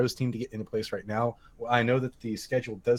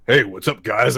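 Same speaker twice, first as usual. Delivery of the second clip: imitating his greeting; 7 dB louder, slower than usual. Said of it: "his voice was like".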